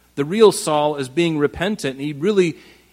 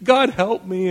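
put-on repentance; 3 semitones higher than usual. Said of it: "Saul puts on this thing".

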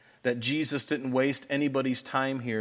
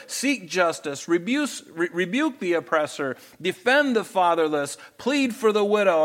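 raised-pitch preacher reading out God's rebuke; emphatic scripture reading; 4 semitones higher than usual. Acted. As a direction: deliver each command as a separate, insistent charge. Reads God's rebuke from Isaiah.

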